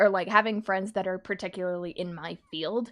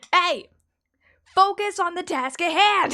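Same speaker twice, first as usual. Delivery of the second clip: high, slow bossy friend impression; 11 semitones higher, 8 dB louder, slower than usual. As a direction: boss them back to work. Imitating friend Scrub's bossy line.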